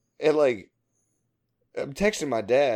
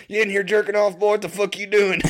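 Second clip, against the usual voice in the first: higher, rough mock bark at a kid; gruff coworker voice; 8 semitones higher, 5 dB louder than usual. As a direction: bark it like a crude old coworker. Coworker barking at speaker, retold.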